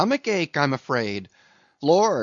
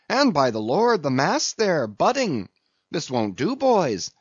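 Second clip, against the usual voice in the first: higher-pitched, rousing exhortation in bursts; crying to his crew; 6 semitones higher, 3 dB louder than usual. A narrator's reading. Stubb goading his rowers to beat the German, rousing cry. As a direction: goad them on, building in urgency. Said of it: "cried Stubb to his crew".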